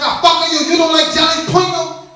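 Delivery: high, loud mock Chinese accent; angry garbled words in a mock Chinese accent. Restaurant owner arguing about jalapenos, mock Chinese accent. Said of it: "they can't swear right".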